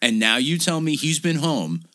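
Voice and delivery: hammed-up angry accusation; acted indignation. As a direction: play her pissed off and incredulous. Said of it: "I'm fucking pissed".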